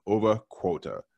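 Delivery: "Over Quota" with a light, unguarded Boston accent. Real, not acted. Host welcomes listeners to the podcast, Boston accent slipping out. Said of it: "My Boston accent came out there for a second".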